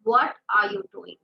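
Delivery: angry. Shown as a demonstration. Teacher scolding a child, mildly angry. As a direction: demand it crossly of the child. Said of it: "And if I'm angry and I ask the child".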